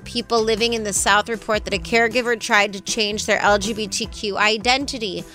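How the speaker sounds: even, measured radio news delivery; steady scripted bulletin read. Real, not acted. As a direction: read it out as a morning-show newscaster. Reads the news segment.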